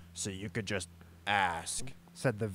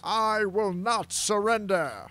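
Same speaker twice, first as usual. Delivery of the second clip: shouting; 9 semitones higher, 5 dB louder, slower than usual. A narrator's reading. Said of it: "their opponent shouts".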